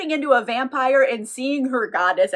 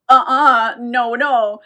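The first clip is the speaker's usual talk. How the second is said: sharp, much louder no; firm refusal; 8 dB louder, much slower than usual. Retold or imitated. Goddess stopping the vampire from biting, firm. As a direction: shut him down hard.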